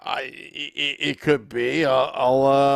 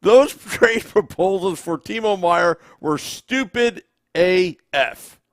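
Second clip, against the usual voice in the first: reading comment aloud; 4 semitones higher, 6 dB louder than usual. Retold or imitated. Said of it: "You want me to read it?".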